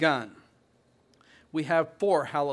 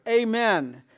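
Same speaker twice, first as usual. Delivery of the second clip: loud, high amen and hallelujah; a raised cry of praise; cried out; 4 semitones higher, 5 dB louder than usual. Retold or imitated. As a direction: proclaim it like worshipping elders. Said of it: "and they cried".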